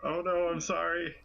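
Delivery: acted tender apology; apologetic cooing. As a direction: soothe a small creature, apologetic. Player apologising to little plant creature.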